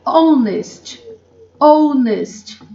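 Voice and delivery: Honest with a silent h, starting on "o". Shown as a demonstration. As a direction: drop the h in Honest. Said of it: "Elas não têm som". (Honest sem som de H)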